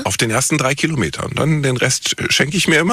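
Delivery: talking with a mouth full; chewing a bite of waffle while talking. Real, not acted. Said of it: "mit vollem Mund".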